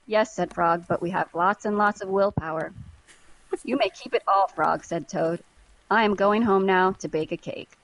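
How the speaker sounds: lively, measured storybook reading; expressive story narration with lightly acted dialogue; story read-aloud. A narrator's reading. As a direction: read it like a picture book for kids. Reads children's story aloud.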